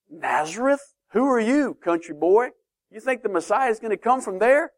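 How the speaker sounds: scornful questions with rising pitch; mock disbelief. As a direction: sneer at the country boy, incredulous. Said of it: "people in Jerusalem".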